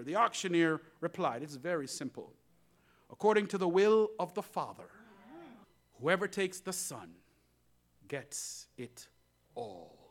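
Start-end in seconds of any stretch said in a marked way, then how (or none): 1.4-10.0 solemn reveal. Acted.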